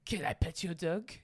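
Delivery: lightly voiced bumbling French detective; a hint of comic French accent; Pink Panther detective. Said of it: "That's the detective".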